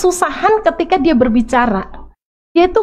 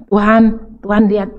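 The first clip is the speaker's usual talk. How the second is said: put-on old pleading prayer; 7 semitones lower than usual. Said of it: "Itu dulu saya".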